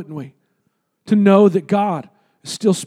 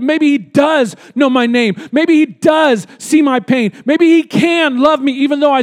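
impassioned preacher's shout; preaching shout; 3 semitones higher than usual. Real, not acted. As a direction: cry it out to the congregation. Preacher building to climax.

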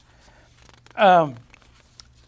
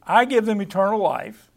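"I" pitched up and stressed, then falling. Shown as a demonstration. Preacher repeating the verse to show emphasis, stressing "I". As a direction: make "I" the point of the line. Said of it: "I want you to see the emphasis here".

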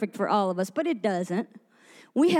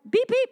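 two short mimicked beeps; imitated machine beep; 9 semitones higher, 3 dB louder than usual. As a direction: copy the ticket scanner's beep. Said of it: "made a noise like that".

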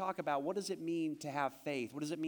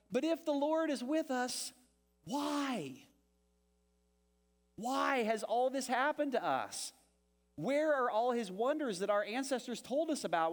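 pleading Gideon; 6 semitones higher than usual. Acted. Pastor voices whining Gideon.

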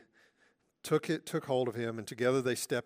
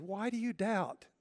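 higher, insistent Why do you doubt?; raised, pressing question; 6 semitones higher than usual. Acted. Jesus questioning Peter, higher and insistent.

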